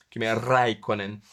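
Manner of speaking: Räikkönen with stretched first vowel; emphatic Räikkönen vowel. Shown as a demonstration. Joking the name cannot be whispered, stretched vowel in Räikkönen. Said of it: "eu só sei falar isso gritando".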